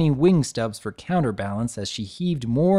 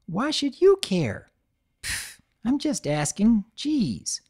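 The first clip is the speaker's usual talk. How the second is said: defensive bicker; 10 semitones higher, slower than usual. Acted. Fillies bickering.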